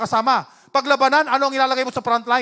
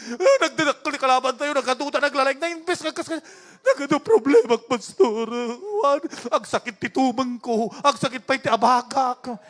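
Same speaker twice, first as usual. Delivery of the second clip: hammed-up tearful complaint; mock whining. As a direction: imitate someone moaning to the pastor about aches and troubles. Mimics believer moaning over problems. (kunwaring paiyak na pagrereklamo)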